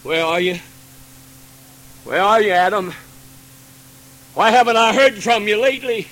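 voice of God calling. Acted. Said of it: "And he's crying out".

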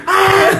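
imitated scream. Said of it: "¿Cómo gritó?".

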